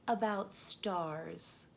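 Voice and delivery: drawn-out gentle hint; slow storytelling tease. Acted. Slow mysterious answer.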